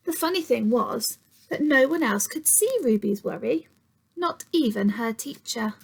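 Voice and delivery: put-on gentle storytime read to young children; storybook narration for kids; story reading. A narrator's reading. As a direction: read it like a picture book to little ones. Reads picture book to children.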